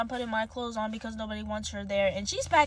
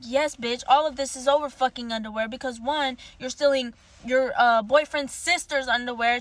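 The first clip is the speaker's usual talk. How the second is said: building into a louder, angrier rant; retold angry rant; 3 dB louder than usual. Telling off the girlfriend over the underwear, building angry rant. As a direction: rattle off the list, getting louder each point.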